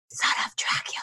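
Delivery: whispered. Telling a bus-ride story, the speaker repeats a stranger's words, retelling a whisper. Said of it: "whispered over at some point during the bus ride".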